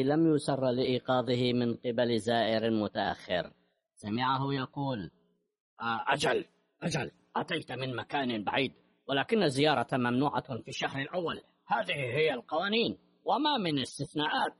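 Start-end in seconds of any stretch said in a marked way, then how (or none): 5.8-14.5 gruff, dismissive prison warden; sharp warden voice. Acted. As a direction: brush off the visitor curtly. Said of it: "النبرة الحادة والمتمردة لمدير السجن".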